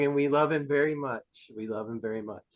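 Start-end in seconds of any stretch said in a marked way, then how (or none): 1.6-2.4 low, soft affectionate echo; hushed and lightly sincere; tender retold quote. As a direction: repeat it quietly, lower, as imitated fondness. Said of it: "And just the way he said".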